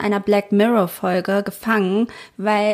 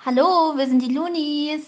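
answering machine message; 4 semitones higher than usual. Pretend. Mock answering machine greeting.

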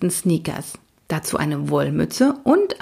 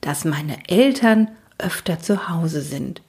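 hushed, solemn wish. Acted. Oda makes a heartfelt wish to the unicorn, hushed and solemn. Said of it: "ihre Stimme bekam einen feierlichen Klang".

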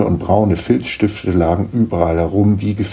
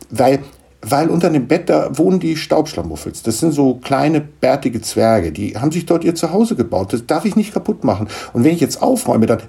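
put-on higher, pleading child's voice; flustered boy; 7 semitones higher than usual. Niklas pleads with his mother for the gnomes, flustered. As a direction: explain it urgently like a boy.

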